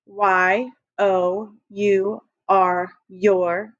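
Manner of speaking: Y O U R spelled very slowly, letter by letter; slow spelling. Shown as a demonstration. Teacher leading the class in slowly spelling your. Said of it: "with our eyes open".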